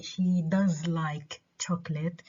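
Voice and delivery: "does" stressed to affirm. Shown as a demonstration. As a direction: lean on "does". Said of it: "معناها أنا بأكد".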